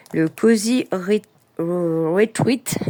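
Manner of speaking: halting French-accented English, stumbling on Retreat; unsure English with a French accent. Real, not acted. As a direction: attempt the English title slowly in a French accent. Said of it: "Moi et mon accent, euh, anglais".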